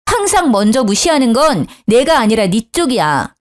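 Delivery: ordinary delivery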